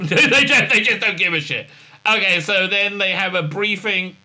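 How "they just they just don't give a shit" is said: laughing through the quote. Retold or imitated. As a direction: giggle the words out. Laughing while quoting Saru.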